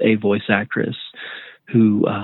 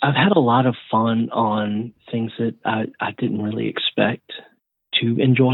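NPR voice. Real, not acted. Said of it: "Jesus, N P R voice".

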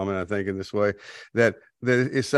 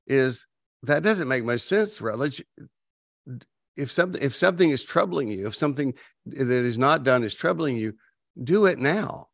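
put-on wise old sage. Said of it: "That's my wisdom voice".

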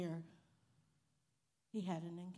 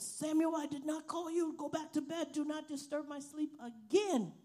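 mildly voiced angry uncle, higher; mad uncle; 7 semitones higher, 5 dB louder than usual. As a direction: scold him back to bed, lightly acted. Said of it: "Uncle was really mad with him".

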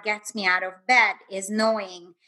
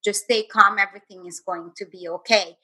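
soothing inner voice; 2 semitones lower than usual. Retold or imitated. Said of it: "this beautiful voice that I can't even describe said".

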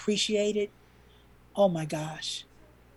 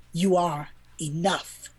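slow reassurance; 2 semitones lower, slower than usual. Real, not acted. Speaks to listeners directly.

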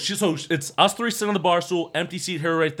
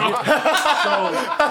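put-on high girly voice; 10 semitones higher, 4 dB louder than usual. Retold girl agreeing.

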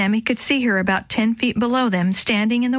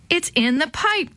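exclaiming; 7 semitones higher than usual. A narrator's reading. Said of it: "Dee Dee exclaimed".

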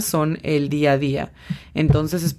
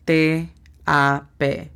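D E S K T A P spelled out slowly, letter by letter; much slower than usual. Shown as a demonstration. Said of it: "La pronunciación fonética es". (deletreo lento, letra por letra)

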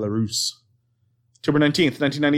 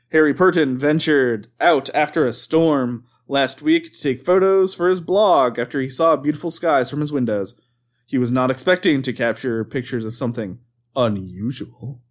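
measured news-report read; newscaster voice. Acted. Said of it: "I don't know why I'm doing this voice".

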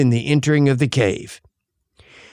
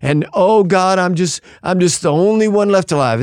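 higher-pitched mock whining; imitated poor-me complaint, pitched up; self-pitying whine; 5 semitones higher than usual. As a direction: whine like a put-upon, self-pitying servant. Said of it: "It's a voice of self-pity and whining".

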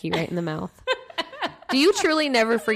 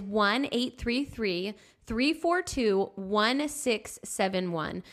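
slow, spaced digits; slow dictation of digits; slow phone number; 3 semitones higher, much slower than usual. Shown as a demonstration. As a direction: read the number clearly. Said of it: "The number to call is".

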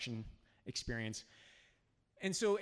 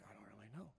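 much softer and lower; a soft, uncertain student mumble; unsure mumble; 7 semitones lower, 18 dB quieter, much faster than usual. Retold or imitated. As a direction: let it trail off, unsure.

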